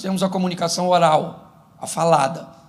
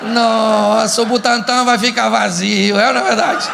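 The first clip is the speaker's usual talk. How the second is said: louder, stretched mock amazement; irony; 4 semitones higher, 5 dB louder than usual. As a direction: jab ironically at the visiting mother-in-law.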